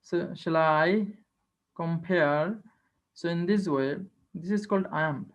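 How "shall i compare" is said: slow, unstressed shall, pressure on I; iambic stress. Shown as a demonstration. Teacher demonstrating an iamb to students, slow stress on I. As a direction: draw out "shall I compare", leaning on I. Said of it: "and it is unstressed".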